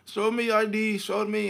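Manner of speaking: high-pitched mock insistence; acted demanding clerk. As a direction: demand it like a suspicious shopkeeper.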